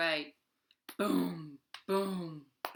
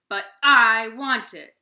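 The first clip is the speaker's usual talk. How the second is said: put-on loud, higher childish monster insisting; greedy monster demand; 5 semitones higher, 17 dB louder than usual. Vinganani refusing Deer, loud petulant monster demand. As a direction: whine it like a spoiled giant.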